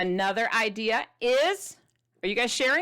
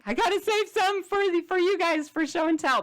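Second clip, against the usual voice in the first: retold excitement; 9 semitones higher, 3 dB louder than usual. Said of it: "'cause I'm like".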